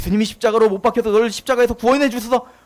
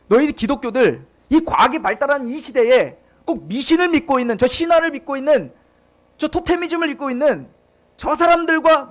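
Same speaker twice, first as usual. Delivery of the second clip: mocking ridicule. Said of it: "조롱하는 이야기들입니다".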